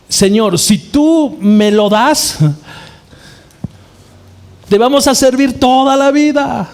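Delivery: high, drawn-out begging prayer to God; pleading prayer. Retold or imitated. Believer begging God for a job, high pleading prayer. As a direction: plead with the Lord like striking a bargain. Preacher imitates bargaining prayer.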